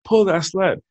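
mock coach chant; coach yelling. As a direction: drive it on like a coach in my ear. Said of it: "my coach gets in my ear and he's like".

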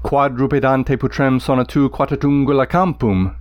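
Latin line beating like hoofbeats; galloping recitation. Shown as a demonstration. Teacher reading Virgil's hoofbeat line, rhythmic. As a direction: let the dactyls gallop. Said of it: "describes the sound of hoofbeats".

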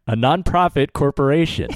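firm announcement, falling at the end; with conviction. Shown as a demonstration. Podcaster re-announcing the nonprofit status to listeners, with conviction. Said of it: "let me say that with, uh, more conviction".

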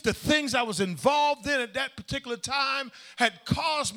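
rising into a preacher's shout; preaching shout. Real, not acted. Preacher to congregation, a hearty pulpit shout. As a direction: belt it out from the pulpit.

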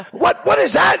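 high startled yelp; sudden alarmed question. Retold or imitated. Retold shock on set.

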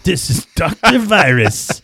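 lightly voiced slow radio host; a hint of a late night DJ, slow. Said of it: "sounds like a late night radio host".

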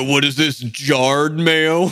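snobby rich guy, lightly voiced. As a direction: sniff at it like a snob. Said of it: "That's my Ryan's rich guy voice".

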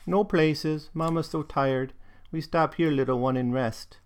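a hint of a tired German-accented mother; German dialect. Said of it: "this is in this dialect".

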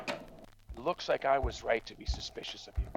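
hushed suspicious whisper. Acted. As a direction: breathe it low, to yourself. Suspicious aside to herself.

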